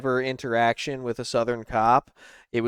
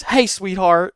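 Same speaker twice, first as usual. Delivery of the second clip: bad Southern-style accent, higher and louder; Clarice Starling; 6 semitones higher, 6 dB louder, slower than usual. Older lady cop greeting a driver, bad Southern accent. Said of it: "a bad Clarice Starling accent".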